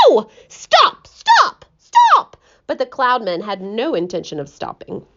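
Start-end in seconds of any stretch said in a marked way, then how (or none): 0.1-2.4 rising to very high, loud pleading yells; each stop louder and higher; crying out, building. Acted. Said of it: "he cried".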